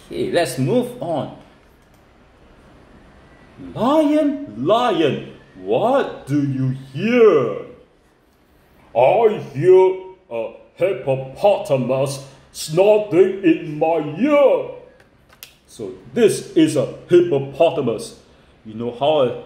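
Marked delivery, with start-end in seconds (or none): 3.7-14.7 measured, sing-song picture-book reading; reading to children. Acted. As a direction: stretch the question out for young listeners.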